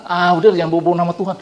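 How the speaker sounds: quick, brushing-off mock retort; dismissive retort. Preacher mimics a scoffer dismissing talk of God, fast and dismissive. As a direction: toss it off fast like waving him away.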